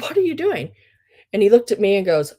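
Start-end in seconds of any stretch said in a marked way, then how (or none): 0.0-0.7 indignant question. Retold or imitated. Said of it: "I looked at him and said".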